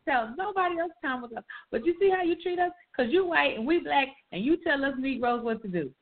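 mock-angry child sassing the teacher; indignant talk-back. Retelling how she told off her white teacher, mock indignant. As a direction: replay the kid's fed-up protest, a bit fast.

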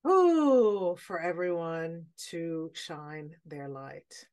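normal talking voice

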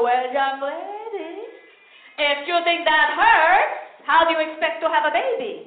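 slow, lecturing mom voice; stern mother. Retold or imitated. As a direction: warn her slowly. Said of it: "And she'd go".

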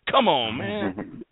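slow, drawn-out sportscaster exclamation, lightly imitated; Madden voice. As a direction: stretch "Come on, man" slowly like a TV football analyst. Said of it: "on the, on the Madden voice".

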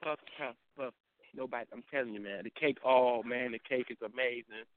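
low, soft, overwhelmed murmur; mock speechless gratitude, dropped low; Ramsey. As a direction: act touched and lost for words, quietly. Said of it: "do your impression of Ramsey".

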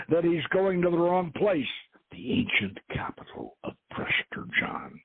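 steady storytelling read of an adventure novel; story narration. A narrator's reading. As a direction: read it like an author sharing his book. Author reads his adventure novel aloud.

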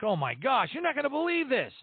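high-pitched disbelief; astonished, can't-believe-it quote; amazed retelling. Retold or imitated. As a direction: re-enact your astonishment, pitch climbing high. Retells own amazed reaction.

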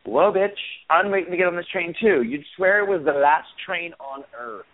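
retelling a rude commuter, mock indignant; indignant retort. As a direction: snap back at the line-cutter, half joking. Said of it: "I'm like".

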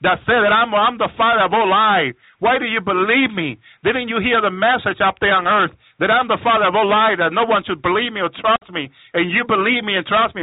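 Satan. Retold or imitated. Satan scolding the witch who believed him, lightly voiced taunt. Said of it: "Satan will have this evil laugh".

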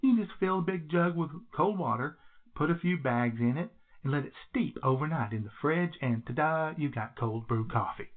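echoey bathroom recording. Real, not acted. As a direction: speak in a small echoing bathroom. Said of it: "do I sound a little echoey today?".

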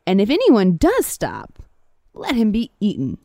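lively folktale telling with big pitch swings; animated storyteller; story narration. A narrator's reading. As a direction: tell it like a fable, stressing the key words. Reads a folktale aloud.

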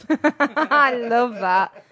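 laughing through the words. Real, not acted. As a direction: laugh while saying it. Laughing after the poem.

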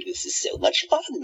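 laughing with wicked glee; gleeful laugh. Acted. Villain gloating alone over his power, giggling.

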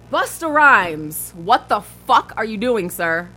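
slow, loud disbelief on the name; exasperated. Real, not acted. Cohost reading a rapper's anti-mask quote, exasperated. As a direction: drag out the name in outraged disbelief.

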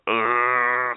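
loud frustrated groan. Real, not acted.

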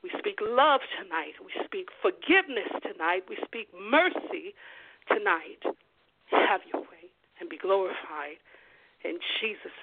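measured, hushed prayer declarations. Acted.

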